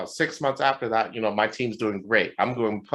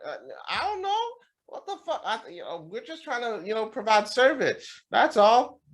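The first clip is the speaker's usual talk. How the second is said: hammed-up defensive stammer; flustered helplessness; 13 semitones higher than usual. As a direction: plead cluelessness in a squeaky pitch. Manager answering upset employees, acted.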